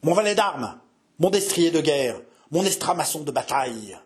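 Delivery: short hoarse commands. Acted. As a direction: call for arms in short bursts. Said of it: "à coups brefs et rauques". (ordres brefs et rauques)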